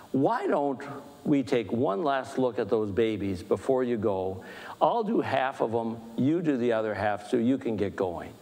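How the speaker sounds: lightly voiced kindly senior nurse; gentle reassurance. Head nurse to new nurse after a busy shift, gently reassuring. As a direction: reassure a nervous newcomer, low-key.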